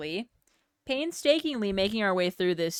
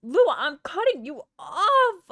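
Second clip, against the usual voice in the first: mock threat; 9 semitones higher, 6 dB louder than usual. Playful threat to gifter.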